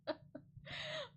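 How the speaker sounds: a very high, soft laugh. Real, not acted. Vlogger apologizing to real Timmys, soft high laugh. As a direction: laugh lightly while apologizing.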